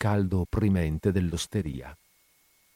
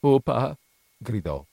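pleading, climbing much higher and louder; terrified pleading; 9 semitones higher, 6 dB louder than usual. A narrator's reading. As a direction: beg desperately not to be beaten. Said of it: "la voce che gli tremava dalla paura". (supplica terrorizzata del bambino)

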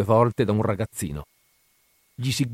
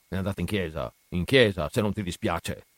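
mocking flat accent; 3 semitones lower than usual. A narrator's reading. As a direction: parrot the boy's answer with scorn. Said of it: "fare il verso all'accento inespressivo del figlio". (imitazione beffarda e piatta del figlio)

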